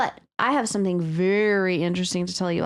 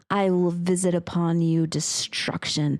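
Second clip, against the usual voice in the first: mock biblical prophet; 4 semitones lower than usual. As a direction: intone it like a demon's threat. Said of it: "Something that maybe a demon would say".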